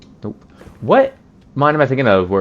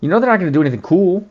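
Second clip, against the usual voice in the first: imitated letdown; 10 semitones higher than usual. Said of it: "You're just like".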